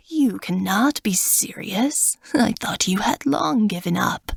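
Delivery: mocking raspy old god; scornful cold rasp; raspy old man. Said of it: "Zirnitra cries".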